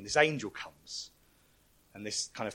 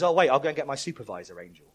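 angel; 4 semitones higher, 9 dB louder than usual. Retold or imitated. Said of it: "And he goes".

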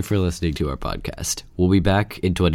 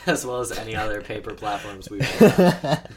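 laughing; 5 dB louder than usual. Real, not acted. Laughing through a line.

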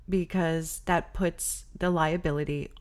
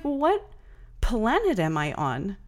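disbelieving; 3 semitones higher than usual. Retold or imitated. Retold disbelief at the desk.

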